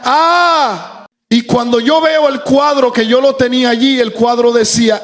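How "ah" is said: higher, drawn-out "ah" imitating a little boy; imitated child's cry. Father imitating his baby son pointing at the picture, mild yell. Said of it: "el niño gritaba y señalaba el cuadrito y decía".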